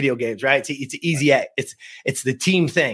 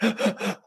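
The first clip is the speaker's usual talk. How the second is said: mock sobbing gasps, higher and softer; imitated sobbing; 5 semitones higher, 6 dB quieter than usual. Boy crying in mom's car, imitated sobbing gasps. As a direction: catch the breath in short pretend sobs. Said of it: "like, sobbing, like".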